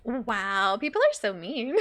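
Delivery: low, whispered reaction; shocked whisper. Real, not acted. Streamer reacting to a mean remark, whispered. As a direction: whisper it in disbelief.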